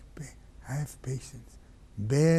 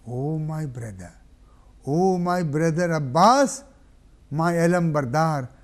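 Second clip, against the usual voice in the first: raised cry to the brother; grieving call; 7 dB louder than usual. Acted. Hussein calling out to Abbas. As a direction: summon the fallen brother.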